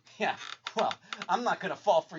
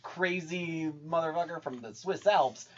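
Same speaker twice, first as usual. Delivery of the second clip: cocky hot shot; 4 dB louder than usual. Retold or imitated. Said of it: "like, this hot shot".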